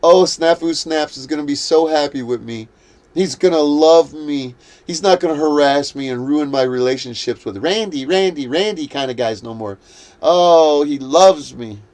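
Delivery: sing-song mock of her gloating; mocking smug gloat. Vlogger parodies a smirking woman, mock-smug gushing. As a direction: parody her fawning over him. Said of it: "smirking like a motherfucker going".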